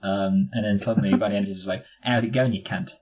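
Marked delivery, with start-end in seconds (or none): 2.0-2.9 mock Australian. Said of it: "sounded slightly Australian towards the end".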